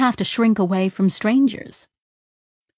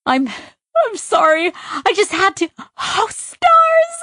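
much higher, breaking into giggles; laughing apology; 13 semitones higher, 4 dB louder, slower than usual. Acted. Sidra laughing to Tak outside the shop, giggling apology. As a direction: apologise through helpless laughter.

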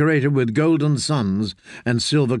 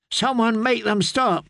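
high, desperate feverish plea; pleading; 8 semitones higher than usual. A narrator's reading. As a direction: beg them to stop.

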